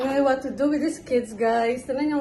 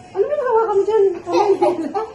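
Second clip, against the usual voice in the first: louder, higher words through a laugh; amused laughing; 4 semitones higher, 5 dB louder, faster than usual. Real, not acted. Amused at what baby is holding.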